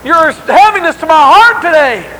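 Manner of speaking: slow, loud lament with broken starts; anguished crying out. Acted. Father telling his only child of his grief, acted anguished cry. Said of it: "he cries out".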